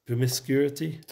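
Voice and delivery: PROMISCUITY tried as "promis-CURE-ity?", rising; questioning "promiscuity?", with an r slipped in after "cu"; unsure pronunciation. Real, not acted. Teacher checking a word with listener, unsure pronunciation of "Promiscuity". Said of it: "is that how I said it".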